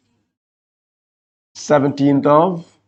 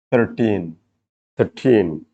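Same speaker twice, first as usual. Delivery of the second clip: put-on "Thirteen" low, with TEEN long and stressed; stress on second syllable; 6 semitones lower, 4 dB quieter, slower than usual. Shown as a demonstration. Teacher demonstrating second-syllable stress, "Thirteen" weighted on TEEN. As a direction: land firmly on TEEN in "Thirteen", first syllable reduced. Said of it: "You stress teen and not thirty".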